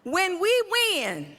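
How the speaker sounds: fiery preacher cadence; preaching. Acted. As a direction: preach it to the crowd. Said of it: "I'ma act like I'ma preach".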